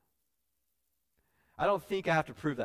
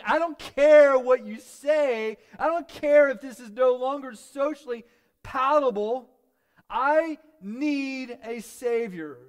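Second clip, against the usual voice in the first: high, drawn-out preacher's shout; loud, impassioned plea, pitched way up; desperate declaration; 12 semitones higher, 14 dB louder, slower than usual. Acted. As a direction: cry out defiantly at full voice, stretching the words. Acted desperate declaration to the crowd.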